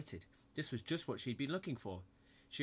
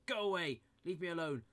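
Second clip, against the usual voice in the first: higher, louder tearful shout; higher, louder upset yell; upset outburst; 8 semitones higher, 6 dB louder than usual. A narrator's reading. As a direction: push her away near tears. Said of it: "And he started to cry".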